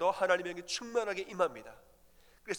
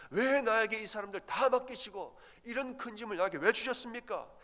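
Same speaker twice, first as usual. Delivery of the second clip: higher and louder, pleading in frustrated despair; anguished plea; 5 semitones higher, 3 dB louder than usual. Acted. Moses crying out to God, fed up with the people. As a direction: cry out to God, at the end of your rope.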